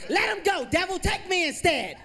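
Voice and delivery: high, loud shout, slow on the last words; hammed-up exorcist mom shouting; mom yelling at devil. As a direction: plead with the devil at full volume. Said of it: "she started yelling".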